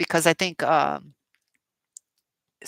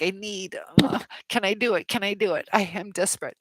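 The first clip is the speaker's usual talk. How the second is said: 1 mock desperate whine; 3 semitones higher than usual. Shown as a demonstration. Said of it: "Not like".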